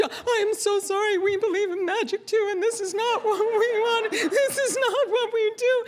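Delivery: high, wailing mock sobs; tearful apology. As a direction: blubber through it, hammed up and high-pitched. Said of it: "like, the tears".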